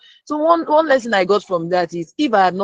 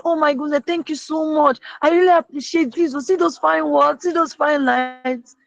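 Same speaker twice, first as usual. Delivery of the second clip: high, gushing thanks, imitated; mock overjoyed praise; happy gushing; 8 semitones higher than usual. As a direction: voice her delight, pitched way up. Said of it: "She was so happy and said".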